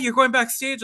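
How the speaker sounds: high, loud mock disbelief; shocked question. Fan hearing he is going backstage, shocked. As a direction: pitch it up in disbelief. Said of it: "And she goes".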